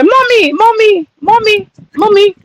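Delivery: high-pitched imitation of a small English child; little British boy. Imitating a little boy heard in the UK, high child voice with British accent. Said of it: "I heard a little boy".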